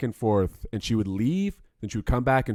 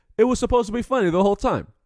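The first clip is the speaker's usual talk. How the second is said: high, loud, put-on Russian-sounding accent. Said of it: "and he said".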